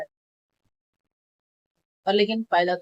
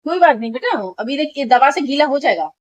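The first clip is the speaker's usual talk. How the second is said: reassuring; 5 semitones higher, 4 dB louder than usual. Real, not acted. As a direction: soothe her little son. Mother soothing child during medicine. (प्यार से तसल्ली देती माँ)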